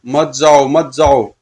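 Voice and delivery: insistent, chant-like fiend warning; mildly menacing monster command. Acted. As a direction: block his way with each repeated command. Fiends drag him back.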